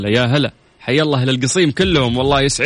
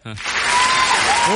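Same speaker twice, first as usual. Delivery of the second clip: laughing; much slower than usual. Real, not acted. Host laughing.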